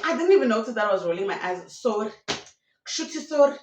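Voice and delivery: rushed excuse. Retold or imitated. Repeated, heightened take of the excuse.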